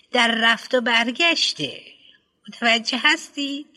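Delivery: lightly voiced headmistress, hesitant and prim; a hint of a prim school head choosing words; fussy headmistress. Headmistress lecturing on development.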